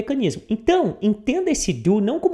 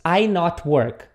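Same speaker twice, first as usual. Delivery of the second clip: wrong example; much slower than usual. Shown as a demonstration. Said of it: "Eu não posso dizer apenas".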